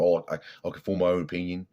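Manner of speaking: botched Australian impression; attempted Australian accent. Quoting the Australian lifter's answer, badly faked Australian accent. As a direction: try an Australian accent and not quite land it. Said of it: "I can't do accents anymore".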